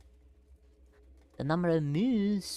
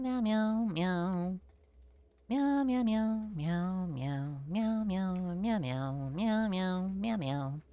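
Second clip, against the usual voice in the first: playful meowing; much slower than usual. Pretend. Meowing at the creature.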